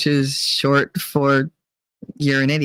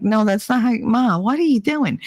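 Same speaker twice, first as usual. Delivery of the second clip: put-on higher-pitched, exasperated grown child; mock exasperation; 6 semitones higher than usual. Correcting mother's Spanish, mock exasperated. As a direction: protest in mock dismay, pitched up.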